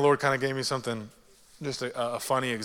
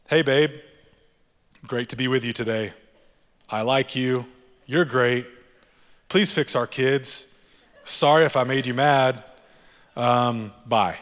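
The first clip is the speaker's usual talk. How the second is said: shallow prayer to spouse; 5 dB louder than usual. Retold or imitated. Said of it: "it sounds something like this".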